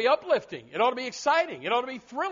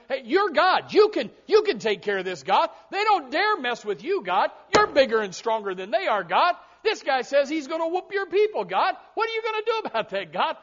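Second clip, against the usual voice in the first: rising, louder and higher, getting himself fired up; a king egging God on, voice climbing; fired-up prayer; 4 semitones higher, 4 dB louder than usual. Retold or imitated. Hezekiah spreading the letter before God, fired up. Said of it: "he's getting himself all fired up".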